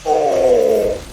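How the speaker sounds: sudden high loud oh; surprised. Real, not acted. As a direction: jolt of shock, blurted out. Sudden surprise during fight.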